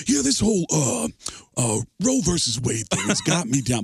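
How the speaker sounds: mock-weary celebrity voice; sighing, put-upon O J; O J Simpson. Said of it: "O J Simpson".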